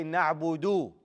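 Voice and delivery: "نعبد" ending on a full "oo"; clear dhamma. Shown as a demonstration. Teacher models the verse word, dhamma pushed out. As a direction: push out the final "oo" of "نعبد". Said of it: "Push out that dhamma".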